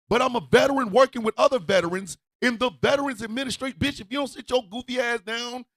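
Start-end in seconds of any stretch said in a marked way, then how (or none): 3.8-5.7 angry laughing rant. Real, not acted.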